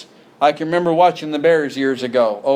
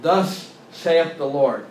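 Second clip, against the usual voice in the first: slow, weighty mock pronouncement; solemn prophet tone; slower than usual. False prophet intoning to the congregation, slow and solemn. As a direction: intone it like a prophet sure of God. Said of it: "They say it in that tone".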